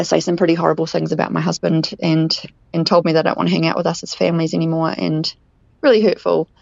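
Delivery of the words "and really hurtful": usual speaking voice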